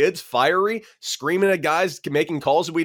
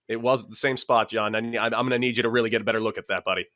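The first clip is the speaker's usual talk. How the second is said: calm passive-aggressive needling; 4 semitones lower, 4 dB quieter, faster than usual. Retold or imitated. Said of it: "very calm conversation".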